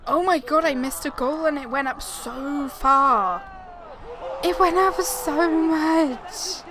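loud, high groan of dismay; dismayed shout. Real, not acted. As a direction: yell at the bad luck. Missed a goal while gaming.

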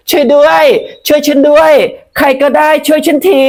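high, loud desperate cries; screaming for help. Acted. Pu screams for help so police outside hear, high and loud. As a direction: yell for anyone outside to hear.

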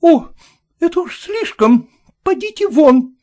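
high, loud furious order; shouting out. Acted. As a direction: throw him out. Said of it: "крикнула хозяйка".

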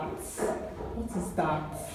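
slow, breathless whisper of disbelief; stunned whisper. Real, not acted. Vlogger staring at the dirty bathroom, whispering in disbelief. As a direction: hush out the question, slowly.

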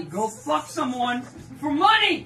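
exasperated rant. Retold or imitated. Ranting advice to hot friend.

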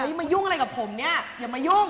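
angry push-away. Acted. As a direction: shove her off with your voice. Rehearsed quarrel scene, rejecting her.

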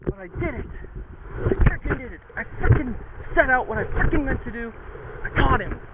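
elated celebration; triumphant. Real, not acted. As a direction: crow about pulling it off. Celebrating the catch.

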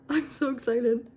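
real squeak of excitement; excited squeak. Real, not acted. Vlogger about to transfer her new spider, excited squeak. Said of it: "that was an obnoxious squeak".

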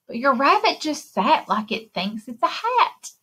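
put-on lively read-aloud for little kids; story reading. A narrator's reading. Librarian reading a picture book to children. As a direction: read the rhymes like story time.

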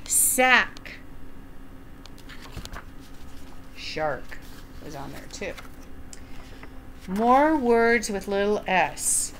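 slow, lilting picture-book read-aloud; gentle storytime narration; reading to children. Acted. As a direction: read it like storytime for little ones.

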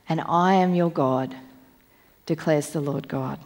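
measured, solemn Bible reading with weight on I; scripture reading. Acted. Preacher reads Ezekiel to the congregation, solemn and measured.

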